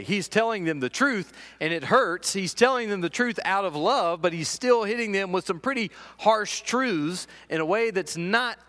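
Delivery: preacher passionately stressing harsh truths; impassioned preaching. Real, not acted. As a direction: drive the point home. Preacher building to emphasis.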